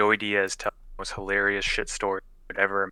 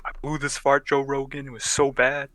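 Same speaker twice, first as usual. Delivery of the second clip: mild Joey Diaz impression, a touch higher; 5 semitones higher than usual. Joey Diaz telling Joe Rogan his fart story, light impression. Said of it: "the way fucking Joey Diaz says it".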